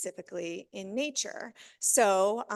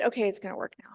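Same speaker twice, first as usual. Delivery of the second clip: whispered aside; 3 semitones lower, much faster than usual. Real, not acted. Slides working, muttering aside.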